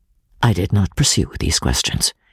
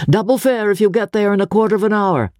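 calling out an offer; 9 semitones higher, faster than usual. Acted. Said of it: "I called to him through the front window".

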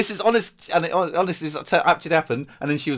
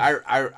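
mild spoken imitation of barking; dog bark; 5 dB louder than usual. Shown as a demonstration. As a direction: show how the bark goes. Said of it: "bark like a dog".

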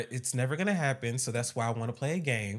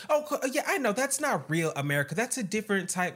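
mock white woman voice; 6 semitones higher than usual. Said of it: "And she was like".

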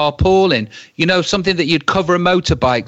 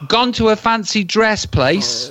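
laughing; 4 semitones higher than usual. Real, not acted. Laughing at the prank's reveal.

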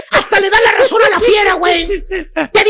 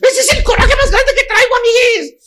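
mild angry pout; 3 semitones higher than usual. Retold or imitated. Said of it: "empieza a hacer pucheros de coraje".

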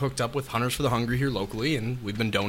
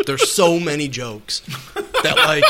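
laughing; 3 semitones higher, 5 dB louder, slower than usual. Real, not acted. Joking, laughing at host.

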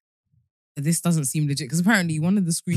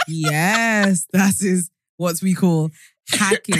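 slow, louder, explaining; patronising; 5 dB louder, much slower than usual. Retold or imitated. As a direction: talk down like a patient teacher. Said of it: "I was like".

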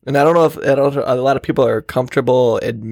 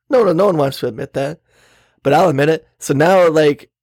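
ordinary delivery

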